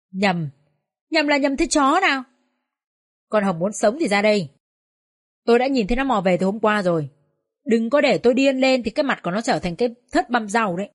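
sharp rising fury, spitting out the words; furious threats. Acted. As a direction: threaten her like an enraged neighbour. Angry neighbour threatens. (giận dữ đe dọa)

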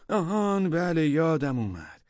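high, loud drawn-out "aha" of remembering; sudden recall. A narrator's reading. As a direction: remember it all at once, voice jumping up. (یادآوری ناگهانی با صدای بلند و کشیده)

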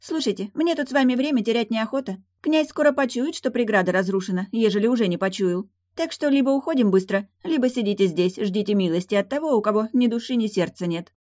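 high-pitched mermaid laying down terms; impatient mermaid. Acted. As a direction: urge them on in a high voice. Voices the mermaid.

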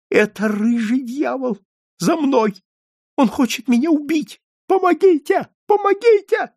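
very high terror, building to loud cries; panicked cries. A narrator's reading. Old man thinks his killer is coming, shrill panic. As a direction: scream for help as panic climbs.

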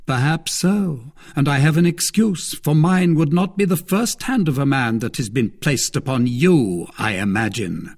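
a smug, teasing brother-in-law; Lord de Winter. Acted. Baron retort.

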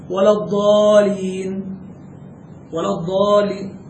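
الضالين with a single light lam, drawn out slowly; wrong light lam. Shown as a demonstration. Teacher demoing the error of a missing shadda, slowly. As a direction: read الضالين without the doubled lam. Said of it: "لا مشددة، هو قال هكذا".

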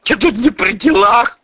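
high, whining whimper. Acted. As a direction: whine it like a beaten dog. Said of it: "поскуливая". (поскуливая)

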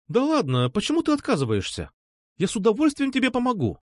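a hint of a pushy girl; lightly voiced girl. A narrator's reading. Alpha insisting, higher.

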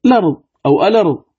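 الأرض quickly as "larḍ", then "alarḍ", no hamza; vowel transfer. Shown as a demonstration. Teacher showing both readings after transfer, الأرض joined without hamza. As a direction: join lam to vowel in الأرض, first dropping the opening "a". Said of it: "الأرض تصير".

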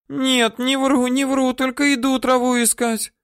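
put-on high pleading old-woman voice; woman swearing innocence to her captor; swearing earnestly. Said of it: "божилась она".

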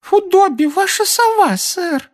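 very high squeaky house-elf; eager little elf squeak. Acted. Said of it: "раздался писклявый голос".

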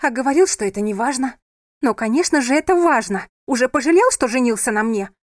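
hurt, rising accusation; tearful outburst. A narrator's reading. Sofia accuses her husband, tearful and loud. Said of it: "В её глазах застыли слёзы".

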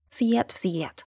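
quiet mocking echo. A narrator's reading. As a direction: mimic his след в след under your breath, teasing. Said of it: "тихо повторила она ему в спину, кривляясь".

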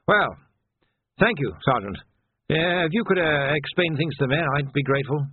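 lightly voiced old officer, awkwardly polite; hesitant old captain. Old captain asking sergeant to brief men, hesitant.

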